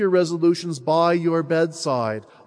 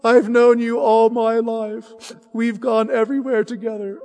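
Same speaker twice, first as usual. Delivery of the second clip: put-on a child's tender farewell, higher; 6 semitones higher than usual. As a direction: say goodbye to your dearest friend. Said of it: "he says".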